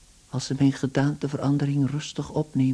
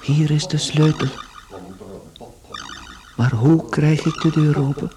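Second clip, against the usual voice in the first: loud effort; 4 dB louder than usual. Acted. Gregor straining at the lock.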